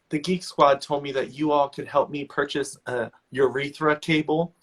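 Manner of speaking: lightly voiced confident customer; imitated confidence. Old lady to computer department, lightly imitated confidence. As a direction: state it with mild mock assurance. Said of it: "back to us all confident".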